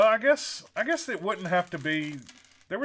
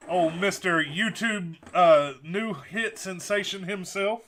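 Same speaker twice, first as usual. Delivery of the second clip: slow, louder hype announcer; 4 semitones higher, 5 dB louder, slower than usual. Pretend. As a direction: introduce him like a wrestling announcer. Announcing John Cena.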